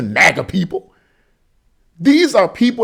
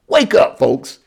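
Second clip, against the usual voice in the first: shouting wake up; 5 semitones lower, slower than usual. Real, not acted. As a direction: yell it out to the audience. Urging listeners to wake up.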